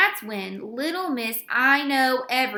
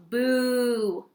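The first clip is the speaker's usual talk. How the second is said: mild mock boo; 4 dB louder than usual. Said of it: "yelled all the boys".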